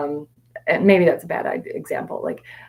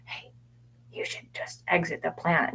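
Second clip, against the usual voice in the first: mock inner whisper; 8 dB quieter than usual. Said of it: "whisper in your ear".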